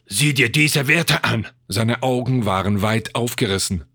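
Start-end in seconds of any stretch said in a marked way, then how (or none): 0.1-1.5 slow, raised, shocked voice; aghast. A narrator's reading. Scientist showing alarming readings, aghast. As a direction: draw it out in disbelief.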